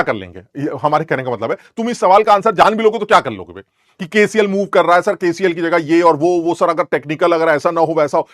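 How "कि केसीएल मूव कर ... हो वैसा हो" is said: lightly mimicking a rambling student, a bit louder; mock student piling up pointless what-ifs; student's silly questions. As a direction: ramble on like a pestering pupil. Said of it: "हम बेवकूफी वाले सवाल पूछ रहे हैं".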